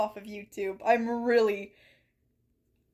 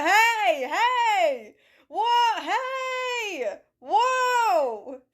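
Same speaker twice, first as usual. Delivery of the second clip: high, loud yelps breaking into laughter; half-laughing mock panic; laugh-crying yelps; 9 semitones higher, 5 dB louder, much slower than usual. Mock distress while laughing.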